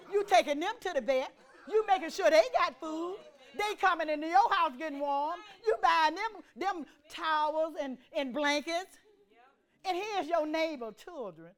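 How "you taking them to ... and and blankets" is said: rising, insistent preacher's list; forceful preaching. Real, not acted. Preacher chiding people who care for their dogs, forceful preaching. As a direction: press each point on the congregation.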